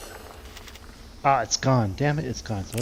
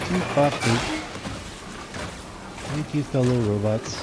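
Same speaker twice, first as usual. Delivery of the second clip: robot voice. Pretend. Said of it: "we'll just pretend to be a robot".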